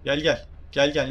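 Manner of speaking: loud taunting call. Real, not acted. Streamer loudly calls a game enemy over.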